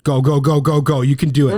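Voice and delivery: loud hype cheer. Real, not acted. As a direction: urge him on, loud. Cheering a timed eating challenge.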